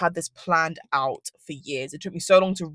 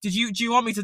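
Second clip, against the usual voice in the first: laughing outrage. Retold or imitated. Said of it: "I was like".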